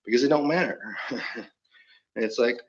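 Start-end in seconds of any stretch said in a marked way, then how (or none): 0.0-0.8 slightly raised Southern voice; put-on Southern accent. Answering why it is fine, put-on Southern accent. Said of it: "you do a real good Southern accent".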